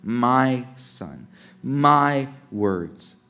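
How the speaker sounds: "my" leaned on in both phrases; stress on "my". Shown as a demonstration. Preacher focuses listeners on those words, stressing "my". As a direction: hold each "my" before its noun. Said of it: "focus on those words".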